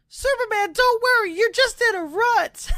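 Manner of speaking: squeaky high encouraging voice; pep talk in a high squeak; high mock friend voice. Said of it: "he's like".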